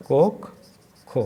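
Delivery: কক্ষ drawn out slowly with a rise; dictating কক্ষ slowly; slow dictation. Shown as a demonstration. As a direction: stretch কক্ষ for writing. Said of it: "dictating word slowly".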